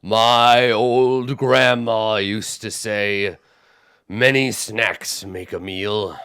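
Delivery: slow homespun cyclops voice; ponderous giant wisdom; folksy giant. Acted. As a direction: quote grandma like a hungry giant.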